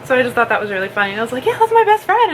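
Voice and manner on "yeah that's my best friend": high-pitched, laughing replay of delight; retold giddy excitement. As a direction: gush it with a laugh in the retelling. Retold proud reply to postman.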